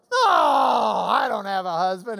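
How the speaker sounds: loud mock protest as the woman; woman dodging. Preacher voices the Samaritan woman denying a husband. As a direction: shout her denial like a caught liar. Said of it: "she's like".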